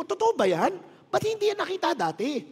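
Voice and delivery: incredulous retold questions; retold disbelief. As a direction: replay how stunned you were. Retold shocked reaction to pastor.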